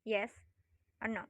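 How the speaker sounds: YES OR NO held on a level tone. Shown as a demonstration. Teacher showing students the level tone, level pitch. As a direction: keep "yes or no" even in pitch.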